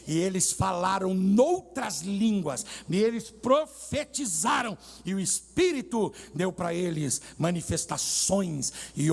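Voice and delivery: slow, emphatic pulpit declamation; drawn-out key words in measured sermon phrases; preaching. Real, not acted. Preacher to congregation on the Spirit's gifts, emphatic preaching.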